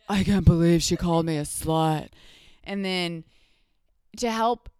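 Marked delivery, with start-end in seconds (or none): 0.1-2.1 loud put-on voice, aggrieved; hammed-up wounded indignation; Luann. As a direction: do an exaggerated impression of an outraged housewife. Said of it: "let me do a Luann voice".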